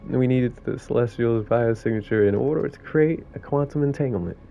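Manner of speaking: lightly voiced New York raccoon; storytelling in a loosely faked New York accent; badly faked New York accent; sarcastic New York accent. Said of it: "That was my worst New York accent".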